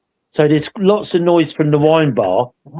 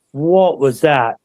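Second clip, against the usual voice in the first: retold astonishment; much slower than usual. Replays group's reaction on recording.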